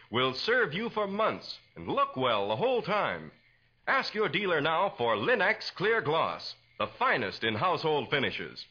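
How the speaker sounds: bright, persuasive announcer pitch; old-time radio commercial voice; radio ad read. Acted. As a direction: sell it to the housewife like a 1940s radio announcer. Announcer reads sponsor ad.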